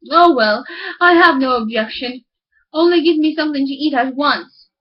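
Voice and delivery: a hint of an impatient miller; hungry miller.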